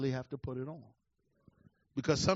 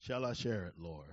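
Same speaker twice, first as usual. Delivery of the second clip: softer, lower aside to the Lord; whispered-down question to the Lord; hushed prayer; 9 semitones lower, 6 dB quieter than usual. Real, not acted. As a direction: ask God quietly.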